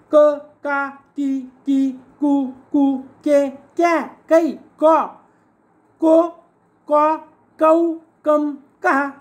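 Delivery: ka syllables sounded out one by one; ka-series recited. Shown as a demonstration. Teacher recites the ka series learned since childhood, syllable by syllable. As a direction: schoolroom drill, each ka syllable set apart. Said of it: "लहानपणापासून शिकलो ते पाहूयात".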